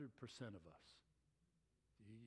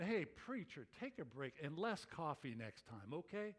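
mild sneer. Retold or imitated. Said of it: "they just sneered at him".

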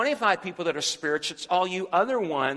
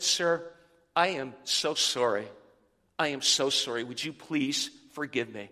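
low, softening, humble plea; gentle apology; 6 semitones lower than usual. Retold or imitated. Pastor apologising to the yelling driver, gentle and low. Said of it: "A gentle answer turns away wrath".

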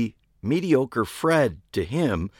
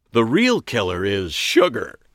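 breezy eccentric woman; 4 dB louder than usual. A narrator's reading.

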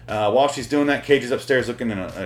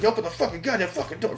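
mock rage fit; 8 semitones higher, 4 dB quieter than usual. Father demands kids open the door, mock freaking out. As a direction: imitate a tantrum in a pitched-up voice. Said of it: "Freaking out".

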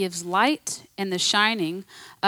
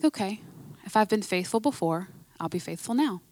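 soft, hushed fatherly question with a rising end; gentle voice of God; 6 dB quieter than usual. Retold or imitated. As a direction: voice God tenderly asking Carrie, softer. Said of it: "He's like".

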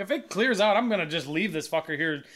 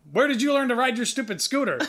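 higher-pitched, taunting comeback; mocking retort; 5 semitones higher than usual. Driver retorts to scooter rider through window, mocking. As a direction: throw the insult back at him. Retelling his roadside argument.

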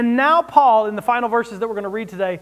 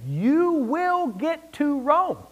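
solemn voice of Jesus; 3 semitones higher, 3 dB quieter, much slower than usual. Acted. Jesus' promise quoted solemnly.

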